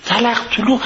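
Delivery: تلق طلو as a clicking heel sound; heel clatter. Retold or imitated. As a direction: mimic heels clacking: تلق طلو. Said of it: "این که تلق طلو به چه معنی".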